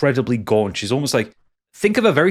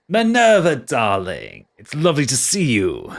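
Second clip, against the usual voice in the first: put-on stage voice; 2 semitones higher than usual. Quattro greets Minerva in his lightly put-on stage voice. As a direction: greet her like a showman on stage. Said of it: "What happened to your voice?".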